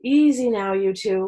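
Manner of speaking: a firm, loud caution to the captives; warning. Acted. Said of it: "Louie said".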